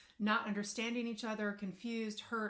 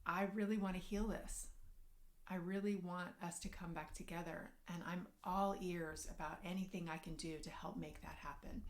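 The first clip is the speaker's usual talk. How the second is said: soft reassurance; 2 semitones lower, 3 dB quieter than usual. Shown as a demonstration. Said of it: "So let her know".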